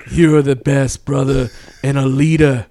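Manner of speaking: lightly voiced druggy heart-to-heart; imitating coked-up Mike. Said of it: "the coke truth came out".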